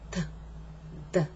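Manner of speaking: "Th" with tongue flat on the teeth; wrong t made with a flat tongue against the teeth; dental th-like t. Shown as a demonstration. Pronunciation teacher showing the wrong flat-tongue t. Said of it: "so that they sound like this".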